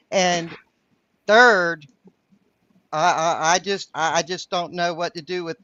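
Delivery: light Southern twang reading aloud; Southern accent. Acted. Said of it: "When I did your words with my Southern accent".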